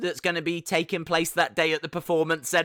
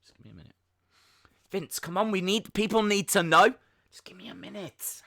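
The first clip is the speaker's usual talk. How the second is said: hunched and murmuring, stalling; lightly voiced Vince mumble; Vince impression; faster than usual. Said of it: "Vince sat backstage".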